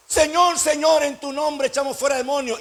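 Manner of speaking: high, mock-pious appeal; hammed-up devotion, the first word highest; hypocrisy at full power. Hypocrites plead their deeds to Jesus, high mock-pious cry. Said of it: "elevará su hipocresía hasta la máxima potencia".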